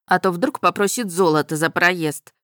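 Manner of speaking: ordinary delivery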